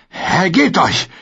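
high, drawn-out order; slow shouted demand. Acted. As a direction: hammer each word down at him. Brienne drückt ihn unter Wasser. (langsam, laut gerufen)

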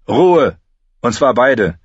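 sharp command. A narrator's reading. Gendry silences the arguing pair, sharp. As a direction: shut them both up.

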